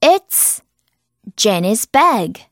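very slow, clear example; slow drill. Shown as a demonstration. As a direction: model it slowly. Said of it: "example drill".

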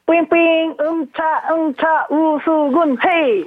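put-on high, slow childlike voice; cute little boy voice. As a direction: play the cute youngest son. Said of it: "막내 아들이 나오신 것 같은데?". (귀여운 막내아들 목소리)

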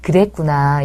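drawn-out imitating of a mom's slow 그랬구나; mock rote empathy. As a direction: slowly parrot 그랬구나 like a memorised line. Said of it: "그래도 많이 노력하시는 어머니".

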